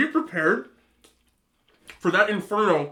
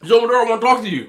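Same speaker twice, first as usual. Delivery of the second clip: higher, louder, fast, laughing through the ex's demand; cracking up while voicing the ex; laughing mock demand; 8 semitones higher, 8 dB louder, faster than usual. Laughing while voicing the ex demanding he open the door.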